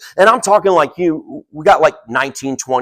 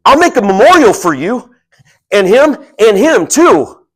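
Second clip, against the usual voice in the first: eager, excited Peter; 8 semitones higher, 7 dB louder than usual. Retold or imitated. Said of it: "Peter just says".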